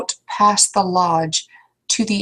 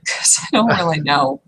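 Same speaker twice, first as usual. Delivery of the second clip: laughing whisper. Real, not acted.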